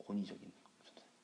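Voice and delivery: very soft, quick grumble; muttered to oneself. Retold or imitated. Kids grumbling inwardly about the new teacher, hushed mutter. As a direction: say it under the breath, imitating kids. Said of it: "속으로 그랬대요".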